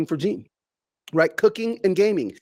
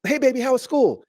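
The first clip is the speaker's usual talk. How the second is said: higher-pitched, sweet retold greeting; cheery dad greeting; 7 semitones higher than usual. Dad greeting his daughter after school, cheery and higher. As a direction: greet your kid brightly, pitched up.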